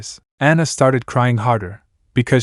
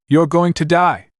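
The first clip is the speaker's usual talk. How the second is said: higher, fearful cry; scream; 5 semitones higher than usual. Acted. Anna to Naruto, fearful scream. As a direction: warn him desperately. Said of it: "Anna screamed".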